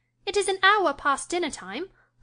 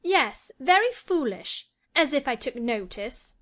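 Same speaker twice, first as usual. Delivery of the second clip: put-on much higher peevish girl; 4 semitones higher than usual. A narrator's reading. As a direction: dismiss it, irritated. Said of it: "in a peevish tone".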